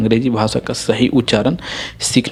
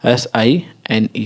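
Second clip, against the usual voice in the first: spelling out; slower than usual. Shown as a demonstration. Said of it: "आपके सामने मैं लिखता हूँ".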